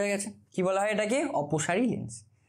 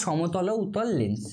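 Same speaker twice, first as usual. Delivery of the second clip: slow drill; slower than usual. Shown as a demonstration. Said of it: "কি বলা হয়?".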